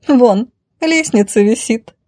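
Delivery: lightly smug lady's voice; gloating. Acted. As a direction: point it out with a touch of malice. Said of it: "злорадно напомнила дама".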